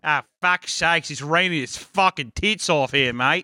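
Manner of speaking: drawn-out Aussie grumble; exasperated mock-Australian mate; Australian accent. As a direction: put on a rough-and-ready Australian accent. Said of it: "trying to do Australian".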